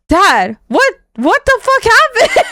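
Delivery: high, incredulous mock squeal; retold shock. Daughter questioning her shaved dad, retold shock. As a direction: re-enact stunned disbelief, pitch leaping up. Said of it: "in shock".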